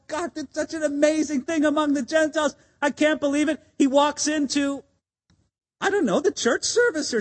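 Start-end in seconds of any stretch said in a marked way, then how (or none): 0.1-3.6 quick, slightly higher, eager retelling; excited Peter. Retold or imitated. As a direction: gush it like you can't contain the news. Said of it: "He's so excited".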